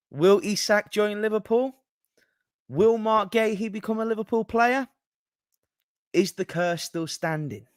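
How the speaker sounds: high-pitched stream-opener impression; mock host's dramatic question intro; Callum. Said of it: "you impersonate Callum starting a stream".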